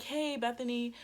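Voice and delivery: feigned nonchalance; playing it off. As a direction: cover the pain with a casual hello. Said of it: "trying to play it off".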